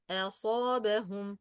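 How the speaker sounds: أصابهم with a thin front "a" before the heavy ص; light hamza. Shown as a demonstration. Teacher repeating the corrected word, light أ in أصابهم. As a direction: open أصابهم lightly, then draw out "saa". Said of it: "But a, a, a".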